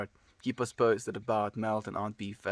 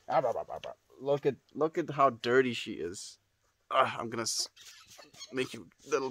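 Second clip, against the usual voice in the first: cooing pet talk; 4 dB quieter than usual. Real, not acted.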